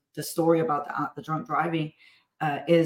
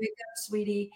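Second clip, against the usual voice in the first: softer, tender wake up sweetie; gentle wake-up; 5 dB quieter than usual. Retold or imitated. Mom gently wakes her daughter with hugs, soft and tender. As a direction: coax her awake lovingly. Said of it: "I literally will climb in the bed, hold her".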